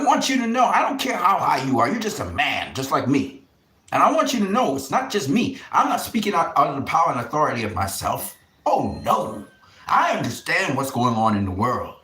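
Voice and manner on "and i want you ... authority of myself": angry warning. Real, not acted. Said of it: "I'm sorry I had to sound like that".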